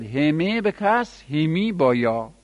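همه said slowly with the kasra, then همی with a final ya; pronunciation demo. Shown as a demonstration. Teacher showing the kasra forms, slow careful demo. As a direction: spell out همه and همی slowly, one at a time. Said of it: "دو لغت دیگر دارد".

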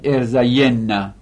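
ارزین نه said as er-za-YEN-na; ارزین نه with a clear 'ye' and doubled n; ya given vowel. Shown as a demonstration.

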